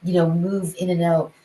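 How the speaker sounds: a light take on the teacher; imitating Bill. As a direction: play the jazz flautist explaining. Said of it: "And he's like".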